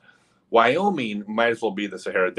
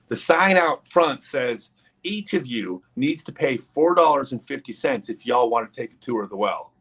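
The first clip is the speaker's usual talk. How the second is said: higher, emphatic retold insistence with a country touch; exasperated explaining; 3 semitones higher than usual. Girl spells out the price again.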